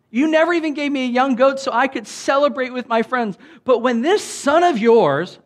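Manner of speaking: high, loud whiny grown son; petulant young adult. Acted. Older brother complaining to his father, high, loud and petulant. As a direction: whine it like a sulky grown son. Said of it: "petulant young adult".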